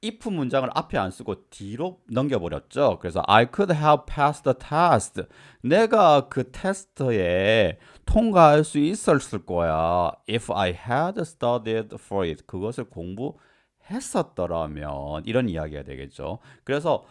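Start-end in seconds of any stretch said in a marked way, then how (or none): 3.3-5.2 slow, raised example sentence; slow example read. Shown as a demonstration. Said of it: "example sentence read slowly". 10.3-12.4 slow, clear example clause; slow example read. Shown as a demonstration. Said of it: "example sentence read slowly".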